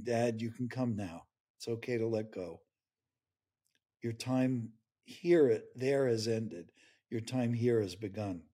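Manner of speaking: hushed, loving welcome; gentle reassurance. Pretend. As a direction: tenderly tell him he may let go. Imagined angel daughter welcoming dad.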